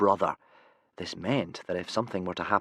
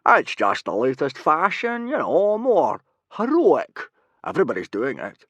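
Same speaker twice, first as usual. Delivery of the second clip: sheepish Gobber voice; 7 semitones higher, 7 dB louder than usual. Acted. Gobber bluffing to Stoic about his curls, loud and high. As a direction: play the guilty Gobber bluffing.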